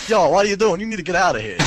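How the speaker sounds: high, loud talking-bomb voice; Andy. Pretend. Talking bomb warns players to leave, high impersonation. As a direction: impersonate a bossy cartoon bomb. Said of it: "the voice of the guy from".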